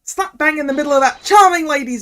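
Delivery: scornful, ranting Cockney journo; Cockney journalist. Acted. Journalist confesses the stabbing to the court, ranting in Cockney. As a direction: spit out a righteous Cockney confession with punched words. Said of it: "making the journ-, uh, the journalist guy Cockney".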